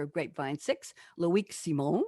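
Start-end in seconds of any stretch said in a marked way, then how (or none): 1.2-2.0 put-on French accent. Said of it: "I'm doing my French accent".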